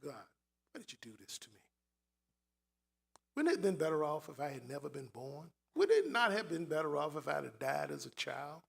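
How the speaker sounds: low, soft grieving plea to God; hushed lament; quiet prayer. Acted. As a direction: ask God quietly, hurt. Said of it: "It was to God".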